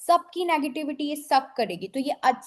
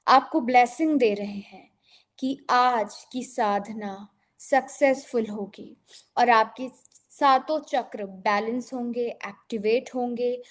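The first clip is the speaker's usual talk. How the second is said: guided meditation. Acted. Guides a visualization.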